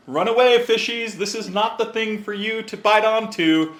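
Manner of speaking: mock fish warning. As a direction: shoo the little fish away in a silly high voice.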